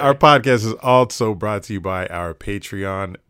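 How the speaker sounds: normal talking voice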